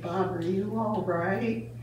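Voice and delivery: softly imitated timid question; a little voice, retold; tiny voice. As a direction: ask it small and quiet. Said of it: "then in a tiny voice".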